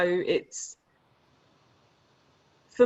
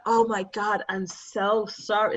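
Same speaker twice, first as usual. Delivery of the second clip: lightly put-on American apology, drawn out at the end; American accent; slower than usual. Dog owners apologising to him, in a mock American accent. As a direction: imitate an apologetic American, stretching the words. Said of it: "It's my American accent".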